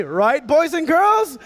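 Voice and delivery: put-on slow, drawn-out cue with a stretch on girls; host's cue call. Shown as a demonstration. Host teaching the kids their cue, slow and drawn out. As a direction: draw out girls like a kids' show host. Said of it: "whenever I say".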